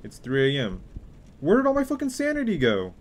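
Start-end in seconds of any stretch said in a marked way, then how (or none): 1.4-2.9 very high, loud lament; mock despairing wail. Mock despair over lost sanity.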